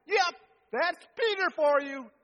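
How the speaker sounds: a light, high, amused aside; mock-amused disciple quip. Disciples laughing at Peter, lightly voiced quip.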